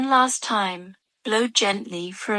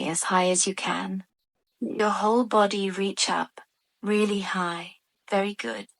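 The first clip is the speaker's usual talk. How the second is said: guided meditation. Real, not acted. Adult guiding children through stretches and long breaths, guided meditation voice. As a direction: lead gentle stretches, pausing between instructions. Leads children's relaxation exercise.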